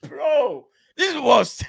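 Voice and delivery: high-pitched, real laughter breaking through the words; laughing at himself. Real, not acted. Laughing at his own failed Spanish impression, real laughter. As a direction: crack up at your own botched accent.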